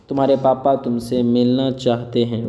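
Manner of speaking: measured, word-by-word teacher delivery. Shown as a demonstration. Teacher models sentence slowly, then quicker.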